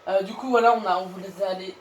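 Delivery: throat too sore to swallow; talking through swollen tonsils. Real, not acted. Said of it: "j'ai vraiment un problème pour parler aujourd'hui".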